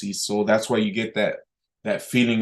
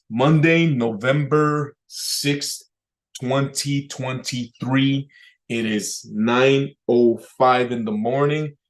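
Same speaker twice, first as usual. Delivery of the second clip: slow, deliberate, energetic date; slower than usual. Shown as a demonstration. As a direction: give every word weight. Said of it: "more energy in the words".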